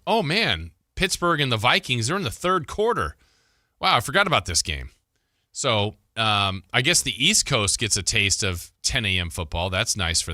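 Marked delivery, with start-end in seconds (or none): 0.1-4.9 higher-pitched, mildly surprised realization; mock surprise. Host voicing a fan who finds a London game underway, lightly surprised. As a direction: act out suddenly remembering a game is on.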